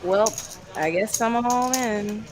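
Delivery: small speech. Retold or imitated. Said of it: "small speech".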